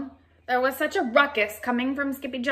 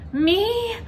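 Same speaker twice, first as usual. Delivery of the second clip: surprised me; 11 semitones higher, 5 dB louder than usual. Acted. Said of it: "asked Scapito".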